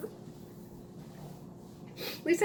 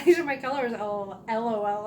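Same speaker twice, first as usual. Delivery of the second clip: mock misheard quote; 4 dB louder than usual. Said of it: "Oh, I thought you said".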